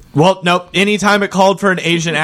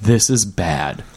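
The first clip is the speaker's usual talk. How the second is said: low, slow deadpan fake British; mock a terrible British accent, low and slow; mock bad British accent; 9 semitones lower, 3 dB quieter, slower than usual. Mocking the actor's bad British accent, low and slow. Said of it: "actively was like".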